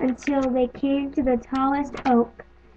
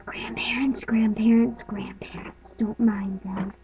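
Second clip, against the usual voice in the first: whispering; 3 semitones lower, slower than usual. Real, not acted. Hushing the grandparents.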